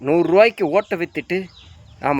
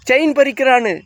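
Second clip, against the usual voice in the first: high mocking whine; mock crying complaint; 7 semitones higher than usual. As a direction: parody a victim's teary complaint. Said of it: "அழுவுறீங்களா?". (கேலியான உயர்ந்த அழுகைக் குரல்)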